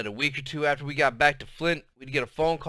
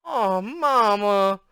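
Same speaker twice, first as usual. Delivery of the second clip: slow, drawn-out disappointed whine, higher; upset, disappointed; 7 semitones higher, 4 dB louder, much slower than usual. Acted. Mama to Grandma, upset and disappointed. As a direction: let it sag with southern disappointment. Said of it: "Mama sounded real upset and disappointed and southern".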